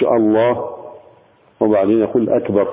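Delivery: الله then a long pause before أكبر; pause between words. Shown as a demonstration. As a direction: break الله and أكبر apart with a full stop. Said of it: "ما يقولش". (الله ثم وقفة طويلة قبل أكبر)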